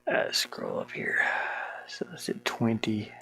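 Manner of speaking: soft whisper to himself while working; hushed self-talk. Real, not acted. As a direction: whisper as if thinking aloud. Muttering to himself.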